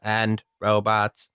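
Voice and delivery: slow, low robotic monotone. Acted. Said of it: "this is my robot voice".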